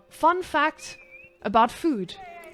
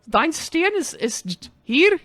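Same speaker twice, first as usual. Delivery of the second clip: yelling at villager; 5 semitones higher, 5 dB louder, slower than usual. Acted. Yelling at in-game villager Hans.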